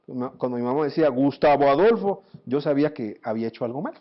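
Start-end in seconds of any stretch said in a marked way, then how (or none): 1.1-2.2 scolding mother. Retold or imitated. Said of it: "nos llama a veces por nuestro nombre completo".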